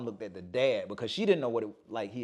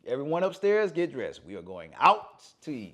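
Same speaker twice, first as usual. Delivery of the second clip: put-on old man's orders; 3 dB louder than usual. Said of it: "Then he tells everybody".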